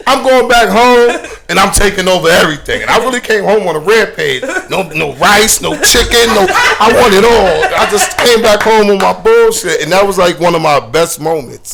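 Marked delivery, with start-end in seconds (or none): 0.1-2.8 high, loud and laughing; triumphant, can't stop laughing; laughing boast. Retold or imitated. DJ heading home to take over, laughing and triumphant. 4.7-9.8 talks through laughter, high; grinning through the words; laughing. Real, not acted. DJ recalling his rampage home, laughing.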